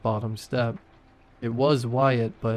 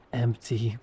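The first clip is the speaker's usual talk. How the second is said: wet voice. A narrator's reading. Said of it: "Her voice was wet now".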